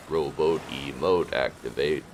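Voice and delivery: slow deadpan robot voice. Pretend. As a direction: stiff monotone machine speech. Player voicing Rowboat robot.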